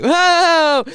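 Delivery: high, loud startled "Whoa!"; like cold water hits you. Retold or imitated. Alone in the sea.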